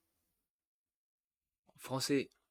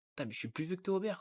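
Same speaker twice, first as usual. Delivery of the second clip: fast, higher disbelieving outburst; shocked realisation; 6 semitones higher, faster than usual. Real, not acted. Découvre qu'il est plus vieux. (choqué, débit rapide et plus aigu)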